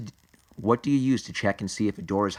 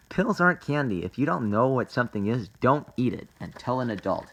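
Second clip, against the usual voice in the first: Scarlet; 3 semitones higher than usual. Acted. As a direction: lift the voice for a cartoon safety lesson. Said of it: "we gotta do our Scarlet voice".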